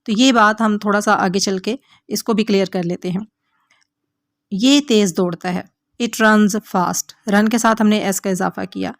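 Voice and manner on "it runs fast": very slow, each word laid out for learners; slow model sentence. Shown as a demonstration. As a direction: dictate it word by word to the class. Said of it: "teacher models an English sentence".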